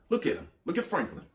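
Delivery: high, mocking demon voice sneering at a man. Demon sneering at Franklin to God.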